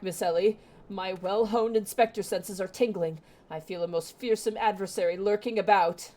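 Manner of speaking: voicing a pompous inspector; theatrical dialogue read; game character voice. Reads Hildibrand scene dialogue.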